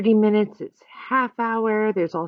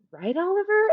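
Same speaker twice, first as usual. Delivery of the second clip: put-on girl voice; 11 semitones higher than usual. A narrator's reading. Ashley asks the dog.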